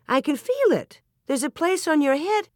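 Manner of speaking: high, excited discovery; pitched high with shocked excitement; astonished. A narrator's reading. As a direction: exclaim it in rising amazement. Wife astonished, feeling the bald spot.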